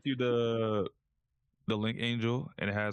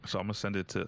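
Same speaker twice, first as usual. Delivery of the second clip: talking with a fork in mouth; words round a fork; mouth full; faster than usual. Real, not acted. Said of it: "sorry, I had a, a fork in my mouth".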